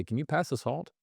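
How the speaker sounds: salt ending on a rising questioning tune. Shown as a demonstration. Demo of a doubtful request, rising like a question. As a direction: ask as if doubting they can do it. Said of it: "As if, like, I doubt your ability".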